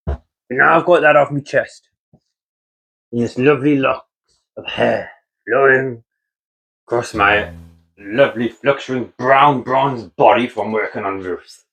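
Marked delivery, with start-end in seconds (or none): 3.1-11.7 mock romantic narration. Poking fun at his own flowing hair, in mock romance voice. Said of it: "I don't normally talk like this".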